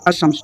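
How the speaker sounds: अशम्स as "ash-shams", no "l"; silent lam. Shown as a demonstration. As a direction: drop the lam in अशम्स and double the "sh". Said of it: "यानी लाम का तलफ़ुज़ नहीं हुआ". (अशम्स में लाम चुप, श दोहरा)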